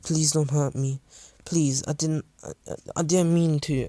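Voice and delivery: a touch of timid begging; scared pleading. Acted. Frightened child pleading with rescuer.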